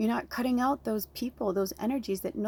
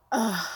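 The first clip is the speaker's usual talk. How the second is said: short heavy "ugh"; emotional groan; 4 dB louder than usual. Real, not acted. Remembering a song that hits home, emotional groan.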